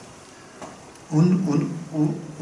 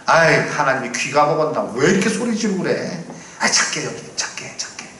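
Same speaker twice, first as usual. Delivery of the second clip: mocking complaint. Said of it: "통성기도 막 하니까".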